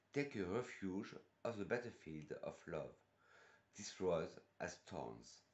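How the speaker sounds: measured English reading, French accent. Real, not acted. Reviewer reciting the rose perfume blurb to viewers, French-accented English. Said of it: "mon superbe accent anglais depuis le début".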